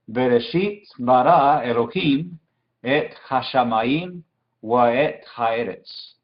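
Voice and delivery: "Bereshit bara Elohim et hashamayim wa et haeretz" read in careful word groups; whole-verse demonstration. Shown as a demonstration. Teacher putting the first verse all together for students, careful model reading. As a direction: join the Hebrew verse up, slowing through "et hashamayim wa et haeretz". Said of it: "Entonces, todo junto sería".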